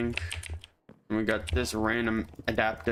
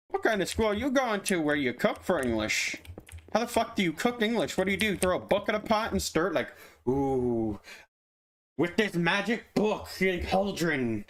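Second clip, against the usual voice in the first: high incredulous mock rant; mocking disbelief; 5 semitones higher than usual. Mocking a school where you cook for English, high incredulous rant. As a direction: scoff at the idea of cooking English.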